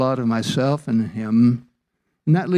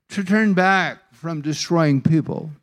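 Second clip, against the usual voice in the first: complaining Jonah; 2 semitones higher than usual. Acted. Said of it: "Now, listen to this".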